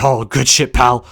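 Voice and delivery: lightly put-on approving boss; mock a pleased boss giving hearty approval; a hint of a booming executive impression; Vince. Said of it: "And then Vince is like".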